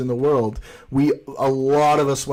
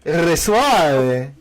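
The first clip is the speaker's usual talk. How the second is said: soft Argentine Spanish; 3 semitones higher, 4 dB louder than usual. Shown as a demonstration. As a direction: draw it out soft like a porteño. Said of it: "Es muy suave".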